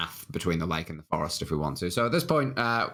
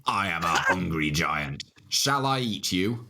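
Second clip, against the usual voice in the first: giant voice; 3 semitones lower, slower than usual. Acted. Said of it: "A giant voice says".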